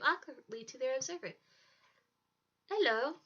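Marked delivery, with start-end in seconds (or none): 2.7-3.2 put-on higher, louder German-accented greeting; cute, bright-pitched boy with a German accent. A narrator's reading. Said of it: "said in a cute German accent".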